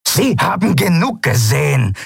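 a hint of a snorting captain; Zaylar snorting. Captain snorting back at Sephiron, dismissive. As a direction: huff it out dismissively. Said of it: "schnaubte Zaylar".

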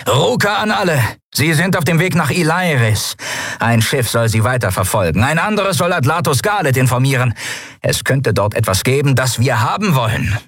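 commander's radio order. Acted. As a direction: bark orders over the comm. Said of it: "ließ sich mit den Schiffen verbinden". (Befehlston über Funk an alle Schiffe)

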